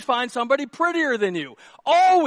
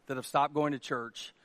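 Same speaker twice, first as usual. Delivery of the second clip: usual speaking voice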